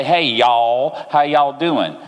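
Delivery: Southern Mississippi greeting, friendly and broad; a mild Mississippi accent, casual; Mississippi drawl. Retold or imitated. Preacher imitating Mississippi folks for the congregation. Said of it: "they talk like this".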